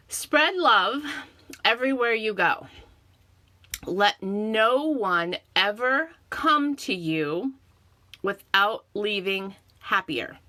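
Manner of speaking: slow, deliberate quote reading; quote recitation. Acted. Reads out a quote.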